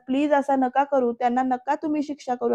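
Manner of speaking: acted soft begging; mild, understated plea; pleading. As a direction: gently implore him to relent. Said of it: "असं गयावया करतायत ह्या नाईकबाई".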